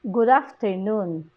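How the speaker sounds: "afternoon" falls in pitch; low pitch ending. Shown as a demonstration. Teacher showing pitch lowers at sentence end, falling "afternoon". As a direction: drop the tune through "afternoon". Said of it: "bumababa tayo ng pitch".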